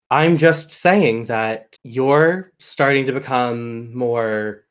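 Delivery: a hint of a cold, patient villain; villain Alistair calmly pressing Ben for the blade, understated menace; lightly voiced calm villain.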